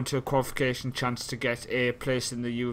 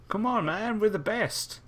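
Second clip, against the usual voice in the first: higher, mock Canadian accent; 7 semitones higher than usual. Teasing the American about letting Canada in, mock Canadian accent. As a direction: ham up a proud Canadian. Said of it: "That was my Canadian accent".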